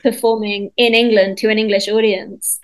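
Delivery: realising the joke, voice jumping up; mock surprise. Director realising the line targets the English audience, mock surprised. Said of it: "And I was like".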